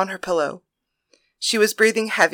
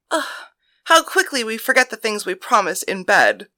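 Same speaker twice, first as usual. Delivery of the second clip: teasing; 2 semitones higher than usual. Acted. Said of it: "Thalia teased".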